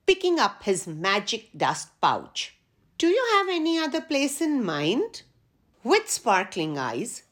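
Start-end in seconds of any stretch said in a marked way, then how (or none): 3.0-5.2 christmas elf. A narrator's reading. Elf asks letter E.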